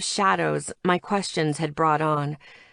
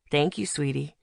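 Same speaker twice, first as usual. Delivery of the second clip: softer, sugary coaxing tone; a mildly sweetened voice for a child; sweet voice; 3 semitones lower, 4 dB quieter than usual. Acted. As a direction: sweetly coax the little one. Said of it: "I kept my voice sweet".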